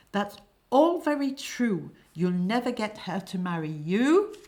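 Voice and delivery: loud, high reproach that builds to a scolding. Acted. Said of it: "reproaching him".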